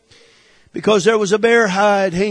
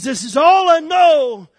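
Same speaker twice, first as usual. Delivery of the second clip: defiant shout; 6 semitones higher than usual. Acted. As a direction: cry it out with conviction. David's defiant line, shouted.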